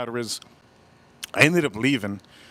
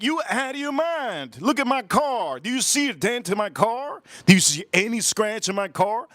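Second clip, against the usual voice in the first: high, incredulous acted comeback; indignant retort; 6 semitones higher than usual. Driver challenging her to find a dent, high indignant retort. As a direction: argue back in raised-pitch mock outrage.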